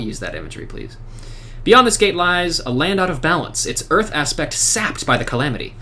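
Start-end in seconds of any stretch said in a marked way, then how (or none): 1.6-5.7 lightly voiced solemn sentry; NPC guard. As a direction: read it as a grave watchman. Reads guard NPC lines.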